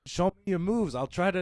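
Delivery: badly faked Australian, pushed up and out; Jason Ellis. Fighter offering his opponent help, mock Australian accent. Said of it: "He's Australian".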